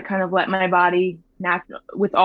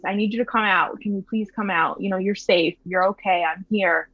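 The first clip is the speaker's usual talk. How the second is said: soothing the babies. Retold or imitated. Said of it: "I was telling the babies".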